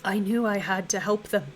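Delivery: a lightly voiced ancient being mourning deaths; the Endless, sorrowful. Game master voicing the Endless to the party, grieving.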